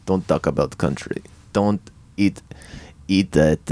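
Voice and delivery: low, tentative Russian accent; Russian accent attempt. Shown as a demonstration. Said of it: "most recently Russian".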